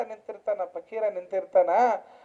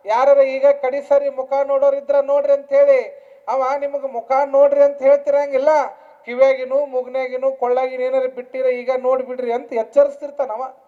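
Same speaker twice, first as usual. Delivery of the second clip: projected, raised sermon storytelling; preaching; 3 semitones higher, 8 dB louder than usual. Real, not acted. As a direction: call the warning out to the congregation. (ಎತ್ತರಿಸಿದ ದನಿಯ ಪ್ರವಚನ)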